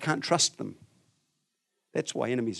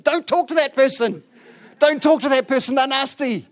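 high, loud mock warning at the screen; hammed-up yelling at a TV show; 11 semitones higher, 7 dB louder than usual. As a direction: shout at the TV like a hooked viewer. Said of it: "you yell at the T V screen".

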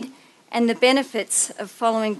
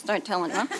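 ordinary talk

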